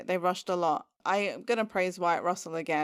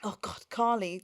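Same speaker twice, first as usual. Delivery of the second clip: ordinary delivery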